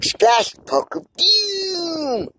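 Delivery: high, slow, hammed-up doom announcement; mock dramatic. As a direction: boom it like a movie trailer. Mock dramatic park name.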